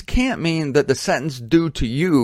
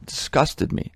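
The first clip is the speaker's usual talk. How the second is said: breathy, unvoiced disgust; 4 dB quieter than usual. Real, not acted. Preacher recalling laughing audience, disgusted hush. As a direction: spit out your disgust under breath.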